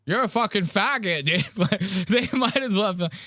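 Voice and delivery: high drawling bro sneer; mocking frat bros. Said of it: "They go".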